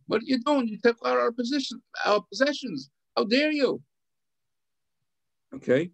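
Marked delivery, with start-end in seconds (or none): 0.1-3.8 mock outrage. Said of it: "screamed out".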